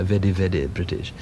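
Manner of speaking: vede vede British with a tapped d in place of the r, mildly mocking; posh veddy British. The speaker recalling trying to sound terribly British, mock posh. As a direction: lightly send up the upper-class way of saying very. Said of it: "spelled V E D D Y".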